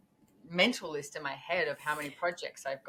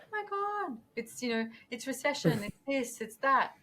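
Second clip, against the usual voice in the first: much higher, breathless mock alarm; mock panic; 7 semitones higher than usual. Imitating everyone panicking about the recession, in mock alarm. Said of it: "everyone's like".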